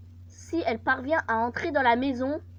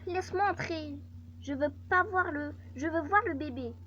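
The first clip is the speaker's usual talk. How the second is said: higher-pitched pleading ex-wife; raised-pitch voice of a demanding ex-wife; 5 semitones higher than usual. Acted. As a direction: act an ex-wife insisting on coming in. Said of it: "Ex-femme".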